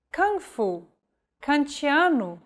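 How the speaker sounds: hard K in Portuguese words; K read plainly; K like English. Shown as a demonstration. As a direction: kung fu, kantiano with an English K. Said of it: "the letter K is read just like in English".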